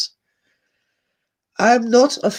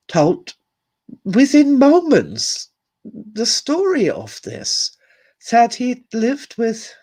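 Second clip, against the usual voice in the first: voice breaking; 3 semitones higher, slower than usual. Real, not acted. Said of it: "getting emotional".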